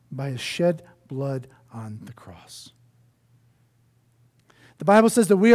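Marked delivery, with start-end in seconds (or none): 0.1-2.7 hushed whisper. Real, not acted. Solemn climax of scripture point.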